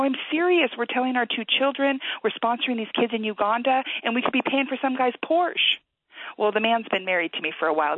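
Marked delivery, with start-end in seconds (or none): 0.0-5.8 worked-up insistence. Retold or imitated. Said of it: "I go".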